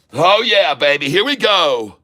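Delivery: real thrill as orders fill; excited cheer. Real, not acted. Stock hits his sell price.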